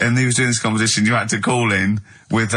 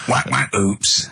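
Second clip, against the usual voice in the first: sound effects; much slower than usual. Shown as a demonstration. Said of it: "I can do sound effects".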